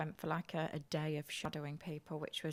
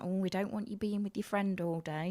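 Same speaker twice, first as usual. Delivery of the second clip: patronizing; 3 semitones higher than usual. Retold or imitated. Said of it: "as if talking to school kids".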